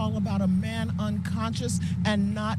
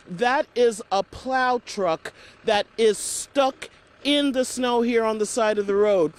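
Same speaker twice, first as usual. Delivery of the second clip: loud; 5 dB louder than usual. Real, not acted. Reporter shouting over snowstorm noise.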